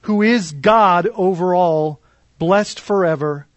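measured, solemn reading of the passage; scripture reading. Acted. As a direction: read the verses aloud to the congregation.

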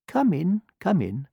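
put-on high, eager old woman's call; old woman greets the duckling at her door; welcoming old woman. A narrator's reading. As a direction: sing it out to invite him in. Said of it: "she said".

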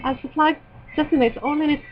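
put-on Irish accent reading. Shown as a demonstration. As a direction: try a synopsis in an Irish accent. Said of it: "I could do the Irish accent".

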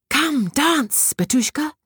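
high, bright call to dance; a joyful fairy inviting; tinkling fairy voice. A narrator's reading. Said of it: "cried the fairy".

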